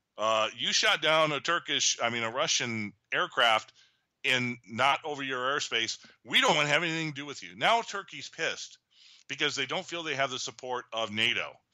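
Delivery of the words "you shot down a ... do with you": plain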